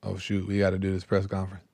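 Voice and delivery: fast, soft grumbling mock cops. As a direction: rush it under your breath like caught-out cops. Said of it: "the cops are like".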